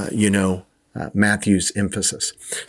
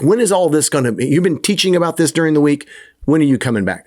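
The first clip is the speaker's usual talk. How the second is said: a touch higher, pressing disciple voice; anxious disciples; 3 semitones higher, faster than usual. Retold or imitated. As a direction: nudge the teacher with eager questions.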